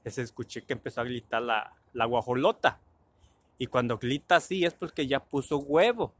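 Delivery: imitating a pal who says "gritar" with an L; "grita" and "porque" with every R turned to L; L in place of R. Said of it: "no puede pronunciar la R".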